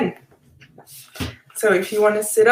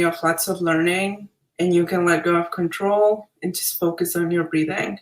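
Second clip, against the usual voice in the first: calm, measured meditation guiding with long pauses; guided meditation. Acted. Facilitator leads attendees through breathing, guided meditation.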